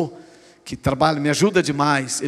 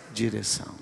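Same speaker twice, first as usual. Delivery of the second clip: hushed echo; 7 semitones lower, 10 dB quieter than usual. Acted. Preacher echoes key word.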